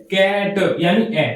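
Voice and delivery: कैट said slowly to show the vowel in "cat"; slow drawn-out कैट for the vowel; sound of a in cat. Shown as a demonstration. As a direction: stretch कैट so the a-sound is clear. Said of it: "ए की जो sound है वो कैसी है?".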